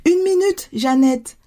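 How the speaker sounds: high, deliberate sing-out; deliberate call back. A narrator's reading. Mother stays put and answers daughter, deliberately calling back. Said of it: "crier encore une fois délibérément".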